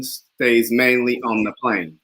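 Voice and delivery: slow Cockney accent; Cockney attempt. Shown as a demonstration. Student trying again after the coach, Cockney accent. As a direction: try the line slowly in Cockney. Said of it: "let's try the Cockney".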